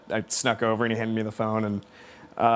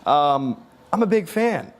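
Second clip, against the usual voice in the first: much higher, apologetic voice; impression of a singer; 5 semitones higher than usual. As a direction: start very high on Oh, then gentle and shy. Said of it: "And he goes".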